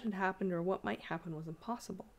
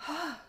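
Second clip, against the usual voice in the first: gasp; 8 semitones higher than usual. A narrator's reading. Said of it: "gasped Liz".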